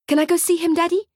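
put-on high pleading little boy; child voice. A narrator's reading. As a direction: beg like an eager kid.

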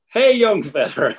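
slow, high, stretched hail; drawn-out mock call. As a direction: stretch the call out slowly, rancher-style. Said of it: "he starts shouting".

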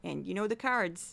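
put-on loud, chatty mom with a thick Saint Louis accent; mom's Saint Louis accent. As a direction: imitate a rambling Saint Louis mother on the phone. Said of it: "Here's my mom".

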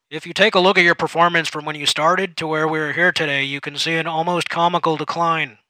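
boss voice. Acted. Supervisor showing the numbers.

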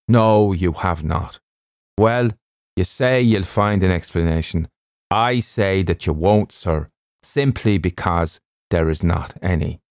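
measured, insistent doctor character; ship's doctor, emphatic. Acted. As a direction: play the doctor flatly contradicting, word by word. Narrator voices the doctor.

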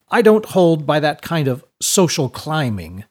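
cold disdain for the tailor; lightly voiced scornful laird. A narrator's reading. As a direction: look down your nose at him. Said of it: "scorn in his voice".

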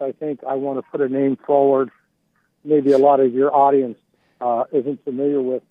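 muffled, bass-heavy phone line; like talking far from the phone; muffled bass only. Real, not acted. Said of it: "you sound f-, muffled".

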